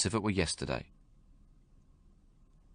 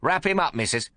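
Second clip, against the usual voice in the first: put-on gruff domineering old man; 9 semitones higher than usual. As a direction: bark orders at the new mother. Old man voiced in story.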